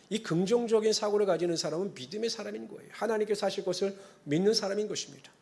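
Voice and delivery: ordinary talk, nothing marked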